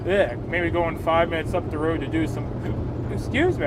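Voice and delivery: talking through hiccups. Real, not acted. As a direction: hiccup breaking the words. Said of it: "I got the hiccups now".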